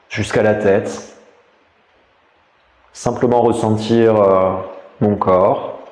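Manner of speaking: calm, measured meditation voice with long pauses; guided meditation. Real, not acted. Teacher guiding listeners lying down through a body scan, meditative. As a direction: guide them inward, leaving space between phrases.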